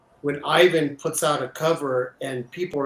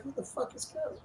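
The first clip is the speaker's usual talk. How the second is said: whispered, high mock wife; whispered quip; 11 semitones higher, 15 dB quieter, faster than usual. Husband imitating his wife, a whispered confused quip. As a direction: hiss it as a confused aside. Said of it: "And she's like".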